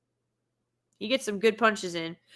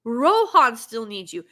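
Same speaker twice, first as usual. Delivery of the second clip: quoting the daughter; 2 semitones higher, 5 dB louder than usual. Retold or imitated. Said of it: "she says".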